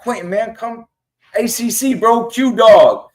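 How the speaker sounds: high, excited call across the field, drawn out at the end. Retold or imitated. Fan in the stands hailing the player, excited call. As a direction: hail him from the stands with the frat call.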